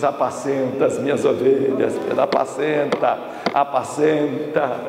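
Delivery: low, calm, slowing at the end; gentle charge. Acted. Jesus restores Peter with a task, gentle. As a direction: entrust it tenderly.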